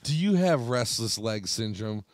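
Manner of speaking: a lightly voiced TV ad read; mocking a drug ad's list of side effects. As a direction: parody a pharma commercial. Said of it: "They'll be like".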